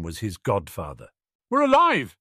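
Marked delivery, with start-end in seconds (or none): 1.5-2.2 bright, high, loud cheer; cheerful announcement. A narrator's reading. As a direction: announce it with glee. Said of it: "Harry announced cheerfully".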